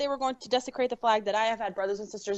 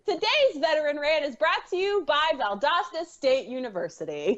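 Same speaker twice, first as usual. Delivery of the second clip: slightly higher, mock presenter read; children's show sponsor announcement; 3 semitones higher than usual. Introducing a rant to co-hosts, in mock announcer voice. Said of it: "And the letter R".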